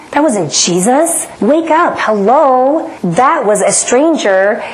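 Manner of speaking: jab at herself like a panicky inner critic; mocking ego voice. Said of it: "And the ego said".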